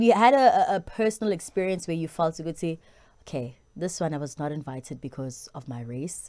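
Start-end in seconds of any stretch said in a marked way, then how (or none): 3.2-6.3 hushed whisper of an imagined thought. Pretend. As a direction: breathe it out, barely voiced.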